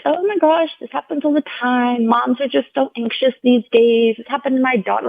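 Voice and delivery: high, breezy imitation of a chattering nurse; chatty nurse imitation. Chatty nurse brushing off concern.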